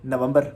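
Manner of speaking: नवंबर as na-VAM-bar; Urdu pronunciation. Shown as a demonstration. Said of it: "उसको हम किस तरह पढ़ते हैं".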